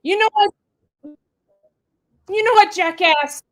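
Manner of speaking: angry tell-off. Acted. Audition monologue, telling off a man.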